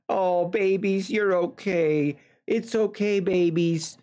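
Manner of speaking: mild imitation of a cooing cat lady; lightly voiced soothing pet talk; a hint of baby talk to the cats. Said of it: "she is all concerned about her cats".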